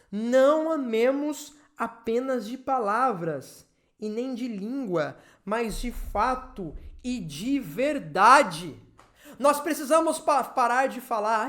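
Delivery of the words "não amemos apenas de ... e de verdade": slow, emphatic verse reading; scripture reading. Acted. Preacher reads John's verse to the congregation, slow scripture reading. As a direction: read the verse out slowly, weighing each phrase.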